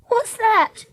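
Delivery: very high, nervous question. A narrator's reading. Treacle hearing a strange hissing in the dark, nervous. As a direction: ask it nervously in a high little voice. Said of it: "Treacle asked nervously".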